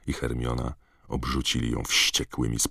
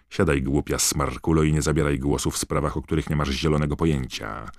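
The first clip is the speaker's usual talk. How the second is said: cold contempt. Acted. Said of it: "wycedziła Rita Skeeter".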